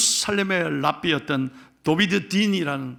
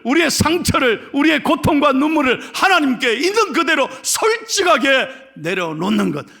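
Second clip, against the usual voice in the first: high preaching voice, building louder; impassioned preaching; 8 semitones higher, 8 dB louder than usual. Real, not acted. Pastor urging honest prayer on congregation, building impassioned preaching. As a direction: drive each phrase home, rising in force.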